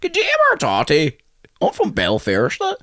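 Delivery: put-on Belfast accent. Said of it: "a singer's accent".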